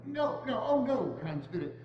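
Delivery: begging in rising dismay; pleading horror. Acted. Scrooge begs the Spirit to spare Tiny Tim, in rising dismay.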